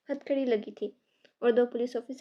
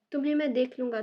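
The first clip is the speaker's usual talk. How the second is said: furious threat; 5 dB louder, faster than usual. Acted. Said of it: "गुस्से से आग बगोला".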